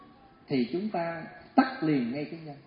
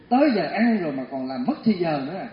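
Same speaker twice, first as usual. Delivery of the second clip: a touch of mock annoyance, louder; annoyed scolding; 4 dB louder than usual. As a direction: scold lightly, impatient. Wife snapping at husband, scolding.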